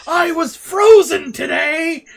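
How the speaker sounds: high, drawn-out movie impression; shouted movie quote. Quoting Christopher Lloyd's film line to friends, hammed-up shout. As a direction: belt out the film line slowly.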